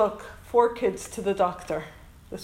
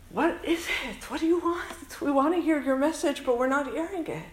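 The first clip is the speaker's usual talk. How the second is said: higher-pitched, bewildered plea to heaven; imploring questions; 5 semitones higher than usual. Acted. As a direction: beg for an answer you can't hear. Acted pleading question put to God.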